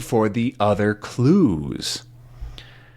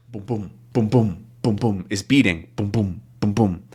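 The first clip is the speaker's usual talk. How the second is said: heartbeat sound; 4 semitones lower than usual. Shown as a demonstration. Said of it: "His heart".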